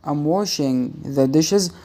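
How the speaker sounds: slow, word by word; slow careful reading. Shown as a demonstration. Teacher showing students slowly, careful dictation. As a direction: spell it out slowly for learners. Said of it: "وأنت بتقرأ بسرعة".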